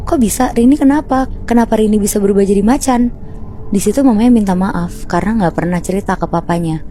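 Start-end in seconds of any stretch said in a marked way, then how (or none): 0.1-3.1 lightly acted bewildered husband, pitched up; retold puzzled father's questions; husband's questioning. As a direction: ask in higher-pitched disbelief. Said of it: "Pas suaminya nanya".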